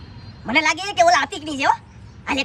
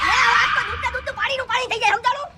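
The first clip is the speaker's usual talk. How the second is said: laughing shout; 4 semitones higher, 3 dB louder than usual. Acted. Mocking quarrel, laughing.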